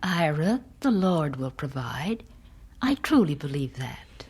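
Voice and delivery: gentle hushed reassurance. Acted. Wife gently reassures her husband.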